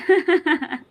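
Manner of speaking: laughing hard at a comment on the live stream; loud laugh. Real, not acted.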